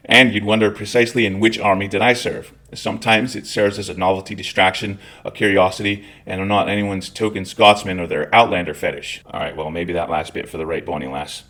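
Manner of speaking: everyday Scottish accent. Real, not acted. Veteran explaining he's no token Scotsman, Scottish accent. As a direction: keep talking in your own Scottish accent. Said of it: "this is my normal accent".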